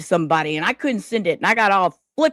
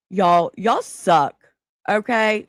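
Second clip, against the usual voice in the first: mock scolding; 3 dB louder, much slower than usual. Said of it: "I'm just gonna verbally abuse y'all".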